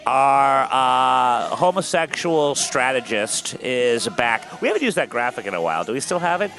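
slow, loud announcer build-up; show host intro. Acted. Host introduces the guests to the audience: announcer hype.

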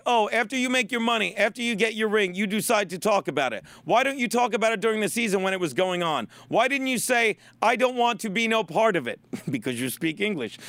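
lightly mocked Spanish accent; Big Papi. Host quoting a ballplayer's complaint, mock Spanish accent. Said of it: "he's very Spanish".

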